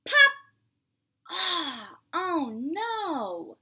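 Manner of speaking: surprised oh no. Acted. Teacher reacting to Pete's button popping. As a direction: gasp of mock dismay.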